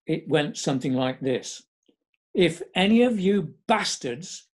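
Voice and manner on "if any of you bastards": retold shout. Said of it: "Philip shouted at us all".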